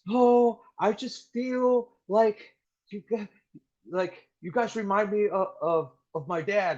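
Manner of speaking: high, slow mock-tearful whine; imitating bawling. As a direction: play a junior Marine blubbering to her sergeant. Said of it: "bawling out".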